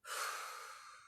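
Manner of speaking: soft, long sighing breath out; big mouth exhale. Shown as a demonstration. Yoga teacher demonstrating breathing for the class, soft audible exhale. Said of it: "big inhales and exhales through the mouth".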